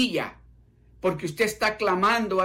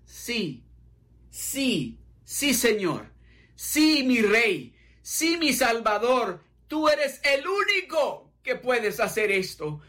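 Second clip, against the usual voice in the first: devoted answer; 3 semitones higher than usual. Acted. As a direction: answer your king with growing devotion. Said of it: "le contestaron de esta manera".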